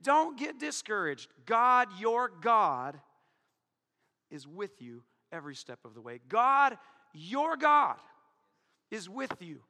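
preaching at full force. Acted. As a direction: thunder the command, then hush the comfort.

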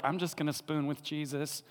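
cosy John. Retold or imitated. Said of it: "John's over there like".

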